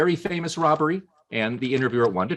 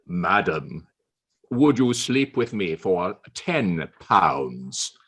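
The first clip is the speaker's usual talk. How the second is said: lower, slow, hushed sly offer; Churchill's proposition; 6 semitones lower, much slower than usual. Acted. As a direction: drop low and let the offer hang.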